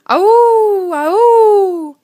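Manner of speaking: high, loud howling; wolf howl. A narrator's reading. Narrator howls the wolf in the night. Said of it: "a howling noise".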